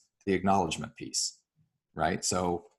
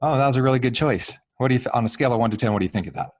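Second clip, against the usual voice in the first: engaged curiosity; 4 semitones higher, 7 dB louder, much faster than usual. Shown as a demonstration. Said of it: "I wanna come in and go".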